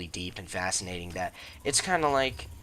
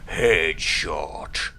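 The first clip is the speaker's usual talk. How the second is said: loud triumphant whoop with a laugh; excited cheer; 8 dB louder, much slower than usual. Real, not acted. Celebrating a headshot kill.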